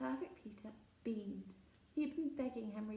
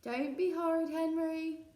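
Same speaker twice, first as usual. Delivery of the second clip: loud high scolding shout; mother shouting at her son; 6 semitones higher, 9 dB louder, slower than usual. Acted. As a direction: yell the telling-off. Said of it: "Mum shouted".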